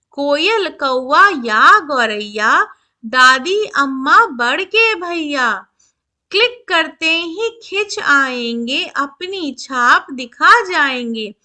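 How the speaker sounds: put-on slow, measured verse reading for children; poem recitation. A narrator's reading. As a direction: stretch each word with a lilting rhythm. (बच्चों के लिए लय में कविता-पाठ)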